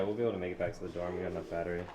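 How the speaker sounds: ordinary talk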